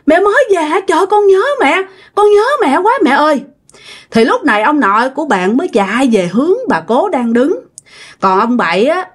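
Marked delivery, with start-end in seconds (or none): 0.1-3.4 put-on high-pitched child's cry for mother; acted wail, pitched well up; tearful calling out. A narrator's reading. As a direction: call out to mom, overcome with longing. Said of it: "ông nội đã òa khóc lên và ông nội mới kêu".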